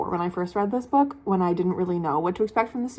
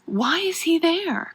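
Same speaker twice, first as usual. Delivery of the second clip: higher, drawn-out exasperated question; 8 semitones higher, slower than usual. Real, not acted. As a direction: stretch it out in real bafflement. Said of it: "I'm so mad about it".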